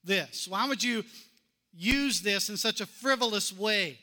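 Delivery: mock critic's scolding; critics' indignation. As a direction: scold her like an offended critic. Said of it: "But the critics surface".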